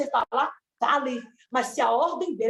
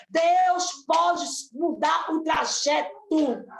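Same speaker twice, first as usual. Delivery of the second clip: preaching shout; much slower than usual. Acted. Preaching cry, drawn out.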